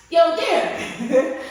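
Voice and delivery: high, loud, drawn-out hail; calling out. Retold or imitated. Host hailing her podcaster friend for help, excited call. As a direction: excitedly holler for a friend, stretching it out.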